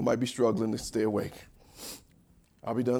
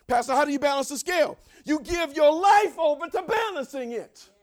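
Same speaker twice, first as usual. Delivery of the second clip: high, urgent call and answer; impassioned preaching; 12 semitones higher, 7 dB louder than usual. Real, not acted. Preacher answering how to balance the scale, high-pitched exhortation. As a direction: fire the question, then cry out the answer.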